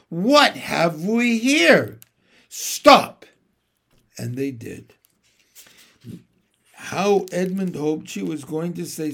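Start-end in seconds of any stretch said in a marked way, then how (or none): 0.1-3.3 slow, cold witch's command; a haughty witch calling a halt. A narrator's reading. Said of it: "the witch said".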